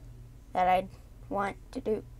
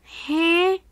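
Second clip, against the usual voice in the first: loud confused huh; sharp puzzled huh; baffled huh; 6 semitones higher, 6 dB louder than usual. Real, not acted. Baffled by game result.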